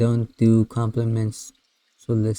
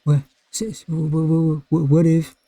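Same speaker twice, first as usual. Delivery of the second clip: flustered stammering; 6 semitones higher, 4 dB louder than usual. Real, not acted. Flustered stammer at game choice.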